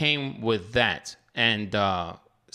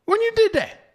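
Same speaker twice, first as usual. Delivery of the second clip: real shock; 6 dB louder than usual. Real, not acted. Host shocked wife already signed up.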